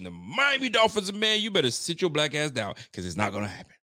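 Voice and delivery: imitating the analyst's firm, sure tone, starting high; imitating conviction. Host imitates the analyst sounding sure of the Dolphins. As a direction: mimic a man dead certain of his pick. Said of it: "he said it with such conviction".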